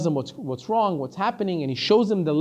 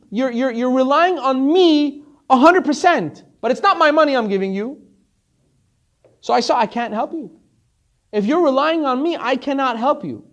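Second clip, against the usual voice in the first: louder and higher, pressing each point home; a preacher hammering the lesson, well raised; forceful explanation; 8 semitones higher, 8 dB louder than usual. Retold or imitated. Rich man lecturing the desperate visitor, loud and insistent.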